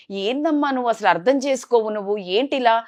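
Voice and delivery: fed up, let the voice rise sharply. Retold or imitated. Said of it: "గట్టిగా ఇంకా voice raise అయింది".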